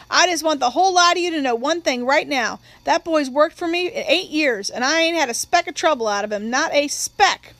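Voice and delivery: lightly voiced emphatic declaration; man speaking up. Employer vouching for worker before the courtroom, mildly emphatic. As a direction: vouch firmly, drawing out the last phrase.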